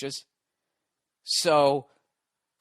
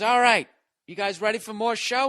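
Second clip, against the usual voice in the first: mock club host, higher and louder; hyping host; 7 semitones higher, 4 dB louder than usual. Godfrey pumping up the club crowd, hammed-up announcer. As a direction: pump the crowd up for more. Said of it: "He goes".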